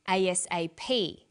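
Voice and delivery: A S A P with the final P stronger; stress on last letter. Shown as a demonstration. Teacher showing learners primary stress, final P of A S A P stressed. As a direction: spell A S A P, landing hardest on P. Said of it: "last letter is pronounced more strongly".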